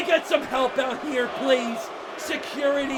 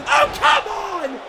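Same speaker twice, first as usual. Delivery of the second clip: higher, drawn-out cry of protest; exasperated protest; 6 semitones higher, 4 dB louder, slower than usual. Real, not acted. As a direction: object loudly, stretching it out. Commentator protests foul play.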